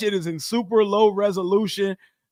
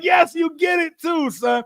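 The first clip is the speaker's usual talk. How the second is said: much higher and louder, thrilled; excited to son; 9 semitones higher, 3 dB louder than usual. Retold or imitated. Father telling his son he gets the joke, thrilled. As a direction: burst out proud and delighted. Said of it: "I was like".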